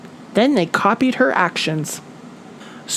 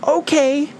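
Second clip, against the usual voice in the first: Little Flap; 8 semitones higher than usual. A narrator's reading. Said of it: "he said".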